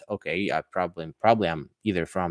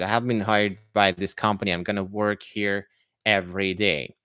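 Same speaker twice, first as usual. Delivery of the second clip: American English, clear R in hired and work; American accent. Shown as a demonstration. Teacher demonstrating the hired-worker phrase, American accent. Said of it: "more like an American version".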